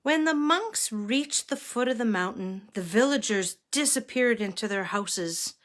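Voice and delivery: measured picture-book reading; story narration. A narrator's reading. Reader telling children of three travelling monks, story narration. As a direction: read a children's story aloud.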